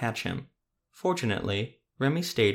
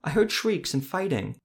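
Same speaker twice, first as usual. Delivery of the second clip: put-on a higher, eager boy's voice, a little breathless; 6 semitones higher than usual. A narrator's reading. Boy running up to the witcher, breathless and higher. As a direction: rush it out like an excited kid. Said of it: "he said breathlessly".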